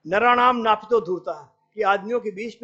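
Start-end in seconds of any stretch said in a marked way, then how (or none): 0.1-1.3 recited Sanskrit. Retold or imitated. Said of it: "Chanakya एक बड़ा अच्छा सूत्र है".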